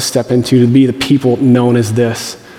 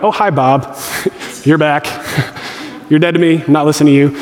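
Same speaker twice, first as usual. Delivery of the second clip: laughing dismissal; 2 semitones higher than usual. Pretend. Naming the inner critic Bob.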